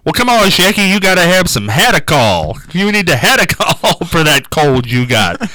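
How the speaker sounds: put-on lightly drawn Southern accent; Colonel Tom Parker. Con man selling Hadacol to Shecky, light Southern accent. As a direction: coax in a mild Southern voice. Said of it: "he would do that Southern".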